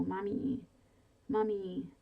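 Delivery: put-on a mild frantic child's call, rising on the second; trapped girl calling for her mother; frantic scream. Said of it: "the frantic scream of the girl".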